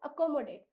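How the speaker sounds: accommodate with a short "uh" first sound; corrected pronunciation. Shown as a demonstration. Teacher corrects the child's reading, proper pronunciation. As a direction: start accommodate on "uh", not "ae". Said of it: "यहाँ पर एक ही ध्वनि है अ".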